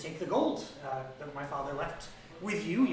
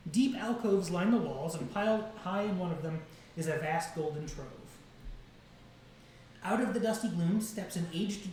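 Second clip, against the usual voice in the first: measured, slightly raised read-aloud narration; game master's scene reading; 2 semitones higher than usual. A narrator's reading. GM reading the vault description aloud, measured narration.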